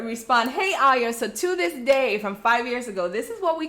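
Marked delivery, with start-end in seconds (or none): 0.5-1.1 lightly acted reply, close to usual voice; answering a greeting. Replying to the coworker's greeting, lightly acted answer. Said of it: "And so I would answer".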